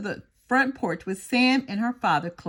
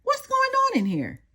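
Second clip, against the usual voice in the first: father's voice. Acted.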